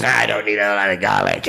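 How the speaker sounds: lightly voiced little troll; trollish voice. Guitarist turns down the garlic, trollish voice. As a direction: refuse like a peevish little troll. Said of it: "that little weird trollish voice".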